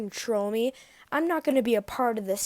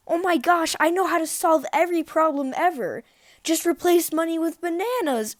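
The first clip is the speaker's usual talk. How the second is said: imitating a friend; 5 semitones higher, 3 dB louder than usual. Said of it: "He's like".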